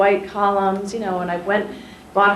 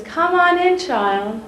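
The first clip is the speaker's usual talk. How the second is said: Maya Angelou welcoming; 4 semitones higher than usual. Retold or imitated. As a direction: open the door and draw the child in, lightly acted. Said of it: "and says".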